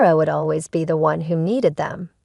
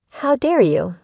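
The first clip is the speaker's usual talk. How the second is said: higher and louder, a furious outraged shout; 6 semitones higher, 3 dB louder than usual. Acted. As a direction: blast it at them in full fury. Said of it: "I shouted".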